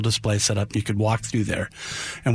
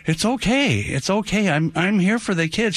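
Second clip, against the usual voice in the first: higher-pitched retold reassurance; reassuring; 7 semitones higher than usual. Santa reassures the boy's mother, retold reassuring. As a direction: soothe an upset parent, as retold. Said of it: "and I said".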